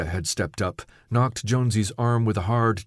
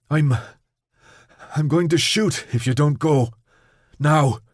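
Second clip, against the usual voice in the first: shouting; 5 semitones higher, 4 dB louder than usual. Acted. Newt threatens to shoot.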